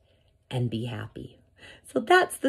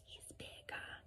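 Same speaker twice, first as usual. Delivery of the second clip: hushed aside; 28 dB quieter than usual. Real, not acted. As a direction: drop right down to confide it. Aside after the big stomps.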